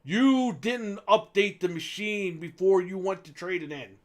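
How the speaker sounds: slow, pushy retold scolding. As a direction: imitate the clerk scolding. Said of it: "he raises his voice and goes".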